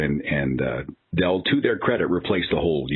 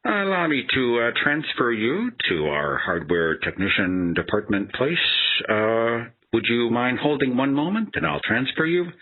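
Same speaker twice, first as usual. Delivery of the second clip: Einstein the agent; 4 semitones higher than usual. Retold or imitated. Lightly voiced agent offering to transfer the caller, smug. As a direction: announce the obvious like a discovery. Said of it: "Einstein says".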